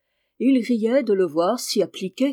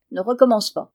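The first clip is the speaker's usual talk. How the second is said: curt, louder warning; dry and displeased; 5 dB louder than usual. Acted. Boy warning his friend to stop teasing, curt and displeased. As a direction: cut him off, displeased. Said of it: "d'un air sec et mécontent".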